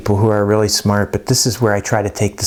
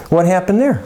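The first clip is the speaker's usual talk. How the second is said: questioning teacher; 7 semitones higher than usual. Acted. Acted teacher questioning a mistake.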